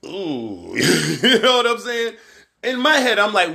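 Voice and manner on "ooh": mock hurt ooh. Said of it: "And I was like".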